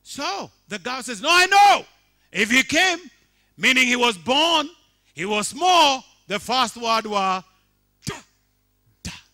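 loud, high, sustained sermon delivery; full-force preaching. Acted. Pastor proclaiming resurrection to congregation, loud preaching. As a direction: proclaim it to the whole church.

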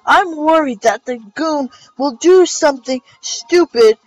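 hammed-up, stretched dialogue reading; overdramatic reading. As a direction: ham up every line of dialogue. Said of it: "make everything over dramatic".

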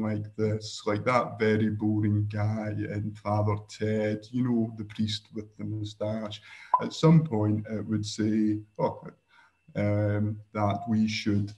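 slow, droning monotone like that boring priest; Father Ted monotone. Shown as a demonstration. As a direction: bore them on purpose, no tune at all. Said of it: "monotone when I was doing the Father Ted impression".

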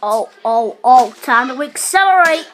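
lightly voiced game hero catchphrase; amateur game character imitation; Lucio impression. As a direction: imitate a hero's voice line, lightly. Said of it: "That's my Lucio voice impression".

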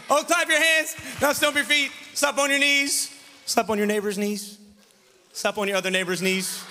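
rally the room with each command; calling out actions. Real, not acted. Leading kids in call-out actions.

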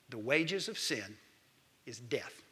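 low, soft, slow verse; grave scripture. Acted. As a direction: let death fall heavily. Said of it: "Romans six twenty-three tells us".

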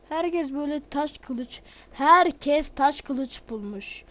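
venting at the game, words stretched slow and loud. Real, not acted. Gamer angry at everyone finding stone swords, slow loud complaint. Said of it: "Niye sesimi yükselttim".

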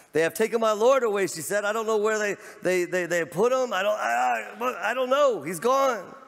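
high, loud distraught Mary; Mary weeping. Acted. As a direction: plead as a grieving woman who lost her Lord. Mary voiced weeping at tomb.

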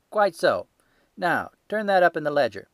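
loud, high-pitched market salesman; a stall keeper showing off his ledger, loud and sure; gruff salesman. Acted. Salesman triumphant.

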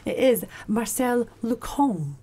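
put-on slow, careful try at a French accent; host trying out a French accent on the name; attempted French accent. Host introducing his guest in a mock French accent. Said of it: "I'm trying to do this my best accent".

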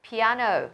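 Piano stressed on the second syllable, -A-; pi-A-no, falling away after the stress. Shown as a demonstration. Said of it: "âm tiết thứ hai được nhấn".

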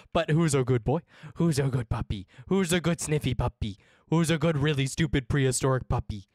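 put-on sing-song who's a good boy; pet baby talk. Streamer to game dog, cooing baby talk. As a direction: coo at the dog like a puppy owner.

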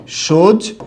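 সোজ as a separated first syllable, "shoj"; pronunciation demo. Shown as a demonstration. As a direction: sound out সোজ alone, closing on j. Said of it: "উচ্চারণটা ঠিক এরকম হবে". (সোজ আলাদা করে উচ্চারণ)

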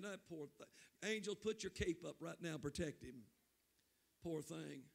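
pitying God. Pretend. God pities the preacher.

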